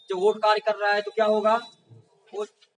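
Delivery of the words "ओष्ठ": ordinary delivery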